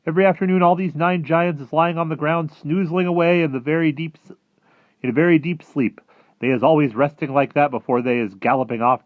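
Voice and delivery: high, loud giant voice explaining; eager friendly giant. Acted. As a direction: lay out the facts loudly as an excited giant. Voices the BFG.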